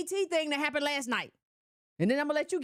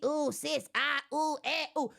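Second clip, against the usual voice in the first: mock swooning fan. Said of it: "a woman you say".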